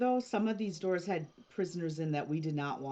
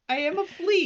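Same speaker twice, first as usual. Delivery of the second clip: flea voice; 9 semitones higher, 8 dB louder than usual. Acted. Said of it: "do you speak Flea?".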